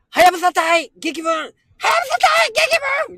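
high, loud battle roar; all-out warrior shout; war cry. Shown as a demonstration. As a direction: bellow it out like a warlord's rallying cry. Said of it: "思いっきりで雄たけびを上げるっていう".

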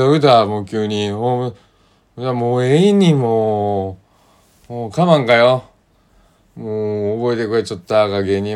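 loud, delighted Tosa dialect thanks with rising どういった？; excited Tosa dialect. Retold or imitated. Thanking a friend who brought a birthday cake, excited Tosa dialect. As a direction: gush in Tosa dialect over a surprise gift. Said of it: "みたいなね".

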